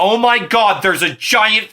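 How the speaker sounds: hammed-up freak-out, drawn out; mock alarm. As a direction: act out sudden panic at a monster. Apollo spots the snake.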